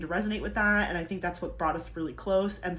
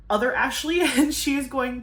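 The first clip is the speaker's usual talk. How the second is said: excited; 7 semitones higher, 6 dB louder than usual. Pretend. Introducing her alter ego.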